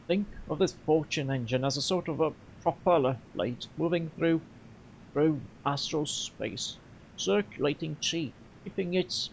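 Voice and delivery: lightly halting explanation with pauses; halting, weary. Acted. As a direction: explain it haltingly, searching for words. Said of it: "his explanation is halting and weary".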